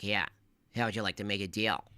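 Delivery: lightly voiced sly fox, fast; hint of a scheming cartoon fox offering a deal; mild sneaky fox voice. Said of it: "the sneaky fox character".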